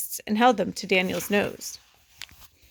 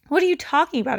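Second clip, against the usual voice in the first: higher, louder mocking copy; mocking mimicry; 6 semitones higher, 3 dB louder, faster than usual. Older brother mocking Peter's denial, mimicking. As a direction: parrot his words to tease. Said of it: "Alex mimicked".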